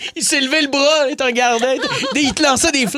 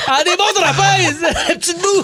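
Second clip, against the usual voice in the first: laughing; 3 semitones higher than usual. Real, not acted. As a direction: chuckle through it. Laughing fit.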